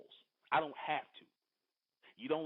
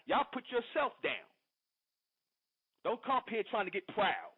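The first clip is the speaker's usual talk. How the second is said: raised pitch, heated scolding, hammering each line; angry rant; 4 semitones higher than usual. Real, not acted. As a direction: scold him hard, pitch pushed up. Host berates caller on air.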